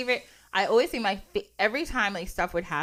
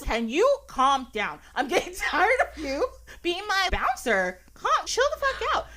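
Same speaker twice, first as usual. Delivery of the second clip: exasperated, rising higher toward the end; tired and annoyed; 4 semitones higher than usual. Acted. Jesus telling Peter to stop being his bouncer, annoyed. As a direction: act increasingly fed up with him. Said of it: "like, tired and annoyed".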